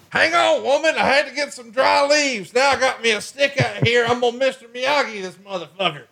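very high, hammed-up redneck voice; squeaky put-on camper voice bragging to his wife; mock hillbilly husband. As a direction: play the cocky backwoods husband, way up high. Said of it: "You're like".

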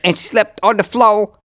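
high, loud, giddy telling; excited retelling. Retold or imitated. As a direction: pile on the reallys with rising glee. Excited retelling of drunk guest.

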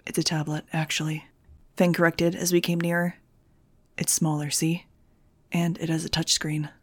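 low, quiet, smug correction; mocking. A narrator's reading. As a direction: correct her with dry mockery. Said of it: "his mocking tone".

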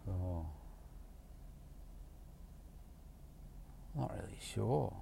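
flat client. Retold or imitated. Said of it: "imitating flat client again".

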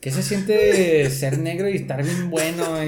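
slow, laughing mock question; mocking party guest. Guests at the party question the hero, slow and laughing. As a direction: ham up the guests' odd flattery. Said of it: "comentarios súper random al dude".

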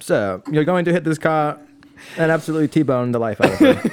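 lightly voiced AI assistant; a hint of a computer butler announcing danger; Jarvis. Driver imitates his imagined heads-up display assistant, lightly voiced Jarvis. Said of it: "Jarvis came into my heads-up display and said".

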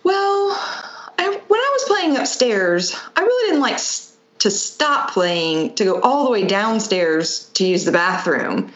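put-on high little-boy voice; imitating a child. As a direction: play the kid explaining himself. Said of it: "he said".

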